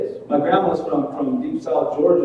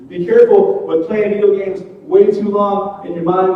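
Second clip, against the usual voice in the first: raised, pleading list of warnings; preachy warning; 5 semitones higher, 3 dB louder than usual. Pretend. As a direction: hammer each "careful" like a preacher.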